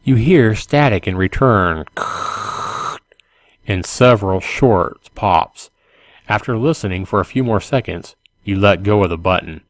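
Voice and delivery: measured, clearly enunciated read-aloud; story narration. A narrator's reading. Gamebook reader describing a zombie-held bridge to the player, story narration. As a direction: set the scene for the player, line by line.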